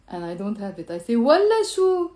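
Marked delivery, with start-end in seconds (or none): 1.2-2.1 والله شو high and loud, falling; scornful refusal. Shown as a demonstration. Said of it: "You see the tone in my, of my voice?".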